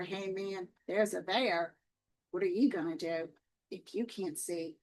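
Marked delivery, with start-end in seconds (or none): 0.0-1.8 hushed warning. Retold or imitated. Retells the stranger's hushed warning.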